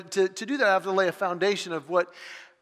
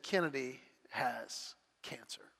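much softer, slow whisper; whispered bad news; 7 semitones lower, 13 dB quieter than usual. Wife telling her husband their daughter's diagnosis, slow whisper. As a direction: breathe it out as if barely able to say it. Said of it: "She said".

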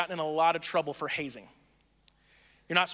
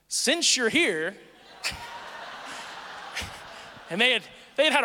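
words dissolving into a big laugh; 4 semitones higher than usual. Real, not acted. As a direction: crack up at the punchline. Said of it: "laugh heard on line".

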